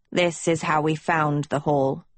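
low, subdued, a touch of emotion; understated breaking voice. Acted. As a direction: speak low, holding back tears. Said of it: "voice breaking".

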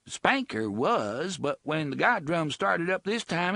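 high, coarse dialect woman's voice; rough slum woman. Acted. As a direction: sullen bloody woman voice. Bloody woman character voice.

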